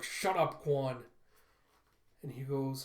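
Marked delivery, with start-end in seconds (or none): 0.0-1.0 angry snap. Retold or imitated. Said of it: "And Telsa's like".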